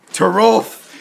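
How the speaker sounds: moaned name. Acted. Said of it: "Hilda moaned".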